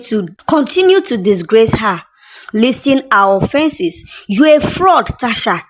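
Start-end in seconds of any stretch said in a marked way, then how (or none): 4.3-5.6 mild yell. Acted. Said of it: "the second woman yelled".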